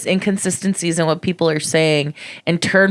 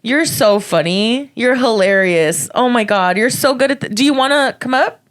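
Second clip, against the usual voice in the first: sarcastic praise; 5 semitones higher than usual. Retold or imitated. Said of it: "I'm like".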